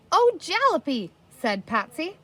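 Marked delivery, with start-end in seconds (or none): 0.1-1.1 high excited cry; excited exclamation. A narrator's reading. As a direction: blurt it out delighted.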